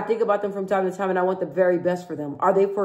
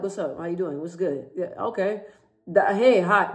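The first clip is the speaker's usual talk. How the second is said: casual greeting; 2 semitones lower than usual. Shown as a demonstration. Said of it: "I always talk like this".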